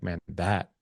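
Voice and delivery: soft and unhurried, full of care; tender, caring validation; loving tone. Shown as a demonstration. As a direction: ease into it gently, like you really feel for her. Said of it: "I'll say it slowly like that in, in a loving voice tone".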